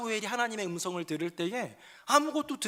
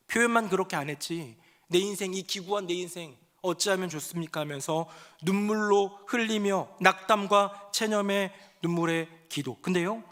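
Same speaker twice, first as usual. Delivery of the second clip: ordinary delivery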